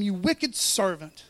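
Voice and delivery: a touch of a stern master, slow and weighty; the master rebuking his servant, slow and stern; stern rebuke. Acted. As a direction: lean slowly on wicked like a judging master. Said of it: "Well, that sounded serious".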